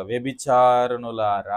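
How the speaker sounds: slow, drawn-out imitated rebuke; stern address. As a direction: stretch it out as a grave reproof. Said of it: "కఠినంగా మాట్లాడుతున్నట్లుగా". (కఠినంగా మందలిస్తున్నట్టు, సాగదీస్తూ)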